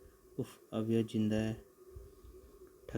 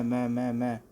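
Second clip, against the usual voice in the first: louder, insistent me me me; quarrelsome shouting; 5 dB louder than usual. Acted. Thugs squabble over going down the well, loud. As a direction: shout over each other to be first.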